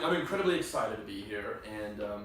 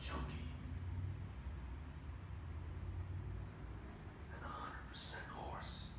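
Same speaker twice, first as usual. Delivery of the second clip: hardened street cop; 7 semitones lower, 13 dB quieter than usual. Acted. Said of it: "do it like a hardened street cop".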